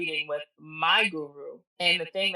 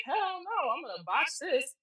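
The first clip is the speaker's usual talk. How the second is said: mock panic; 10 semitones higher, slower than usual. Retelling her panicked reaction to mentor.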